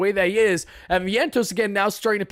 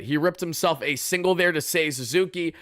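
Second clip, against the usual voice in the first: normal talking voice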